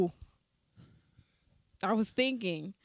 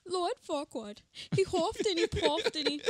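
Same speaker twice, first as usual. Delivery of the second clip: storyteller voice; 9 semitones higher, 5 dB louder than usual. Acted. Storytelling a fairy-tale parody.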